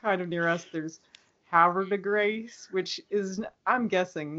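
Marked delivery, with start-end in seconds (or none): 1.5-2.7 "Havre de Grace" said slowly in American English; "Grace" rhyming with "face" in "Havre de Grace"; non-French pronunciation. Shown as a demonstration. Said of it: "not the French pronunciation of that".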